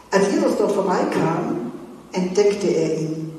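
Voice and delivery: calm storytelling read; measured scripture reading; Bible reading. Acted. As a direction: read the passage to the youth group. Reads Bible story aloud.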